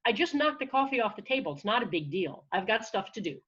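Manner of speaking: brisk brush-off of the inner critic; lightly acted matter-of-fact self-defence; taking control. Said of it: "I can take control by going".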